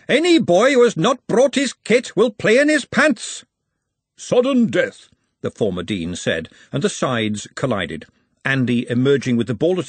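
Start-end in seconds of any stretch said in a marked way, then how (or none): 0.1-3.4 high, loud sports-master bellow; unstoppable announcement. A narrator's reading. Former dean ordering boys without kit, loud high bellow. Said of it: "followed by the unstoppable". 4.2-5.1 high, ringing call; called announcement. A narrator's reading. Former dean restarting play with sudden death, high call.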